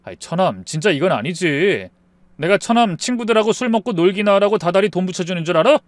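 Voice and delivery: mildly angry brother-in-law, building in force; angry scolding. Acted. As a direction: scold him with rising irritation. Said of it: "얼마나 화가 났는지 몰라요".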